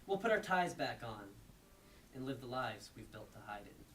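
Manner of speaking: rhythmic recitation with falling phrase ends; lightly performed beat poem, phrase by phrase; beat poetry reading. Acted.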